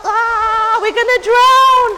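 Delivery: high, very loud terrified cry; panicked cry. Acted. Friends crying out in the storm, loud panicked scream.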